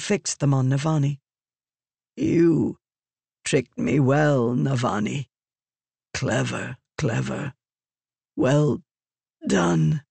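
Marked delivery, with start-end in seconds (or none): 2.2-10.0 faint, admiring dying voice; dying Fused. Acted. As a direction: praise her with fading breath. Dying Fused praising enemy.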